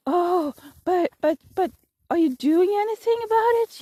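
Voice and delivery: high, stammering mock alarm; retold terrified. Terrified woman asking about the cough, mock alarm. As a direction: imitate a frightened stranger stumbling over words. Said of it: "She looks absolutely terrified".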